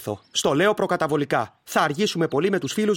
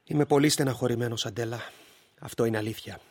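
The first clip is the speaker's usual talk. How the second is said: quiet, much softer sad admission; 5 semitones lower, 5 dB quieter than usual. Acted. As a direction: confess it softly, defeated. Husband admits sadness. (λυπημένα, πολύ σιγανά)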